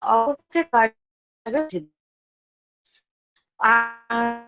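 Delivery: choppy, breaking-up connection; glitching audio. Real, not acted. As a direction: voice cutting in and out. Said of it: "উনার আওয়াজটা কেটে কেটে আসছে".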